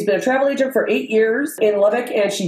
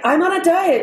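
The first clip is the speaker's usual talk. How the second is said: mock whiny protest; 8 semitones higher than usual. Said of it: "I'm like".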